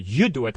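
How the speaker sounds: YOU drawn out and weighted; slow, emphatic YOU before DO IT; stress on YOU. Shown as a demonstration. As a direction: lean on YOU as an emphatic command. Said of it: "힘을 줄 때도 있고".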